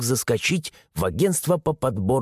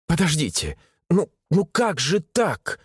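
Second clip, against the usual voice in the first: slow, pleading despair, ну repeated; begging the old woman not to close; 5 semitones higher than usual. A narrator's reading. Woman pleads with the clerk, despairing. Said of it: "В голосе женщины я услышал отчаяние".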